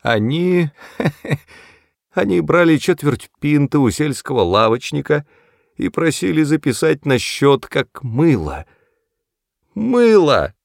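put-on high, giggling old woman. A narrator's reading. Tipsy mother giggling over an old memory. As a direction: giggle through the tale. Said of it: "хихикала она".

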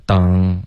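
"done" said as "当", ending in ng; back nasal error. Shown as a demonstration. Teacher copying the student's faulty "done", back nasal. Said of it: "还是有一点后鼻音出现了".

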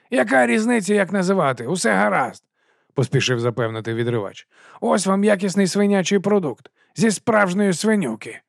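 chummy sausage seller greeting the watch; fast-talking street vendor. Acted. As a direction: sell it with a grin you can hear. Narrator voices Dibbler.

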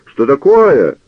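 high, loud alarmed cry; old canon shielding himself with an umbrella, crying out high and loud. A narrator's reading. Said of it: "вскричал каноник".

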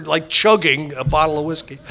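ordinary delivery

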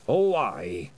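put-on a proud old Scot, curt; old Scottish piper. A narrator's reading. William again.

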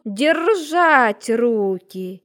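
slow, drawn-out menacing rumble; low menacing rumble. A narrator's reading. Snake count warning the burgher, slow menacing rumble. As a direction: let the threat roll out slow. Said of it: "Негромко, но угрожающе рокотнул".

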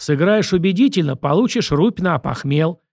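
domineering director laying down terms; bullying director. Acted. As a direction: lay down the deal like a boss.

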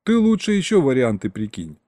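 ordinary delivery, nothing marked

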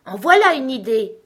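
loud, high, incredulous; scandalised exclamation. A narrator's reading. King scoffs at Alice's question, scandalised. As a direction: scoff at the very notion.

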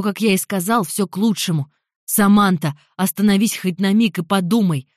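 loud, insistent persuasion on the run; urgent pleading. Acted. Jeremy chases Samantha and tries to persuade her, loud urgent pleading. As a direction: keep pushing your case loudly as she runs.

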